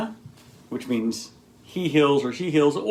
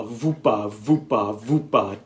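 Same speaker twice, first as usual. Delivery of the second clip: mock sauna syllables. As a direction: chant vupa vupa vupa like a silly sound. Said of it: "as in".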